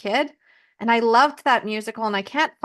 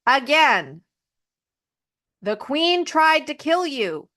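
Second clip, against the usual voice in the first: scolding dwarves; 3 semitones higher than usual. Retold or imitated. Dwarves scolding Snow White.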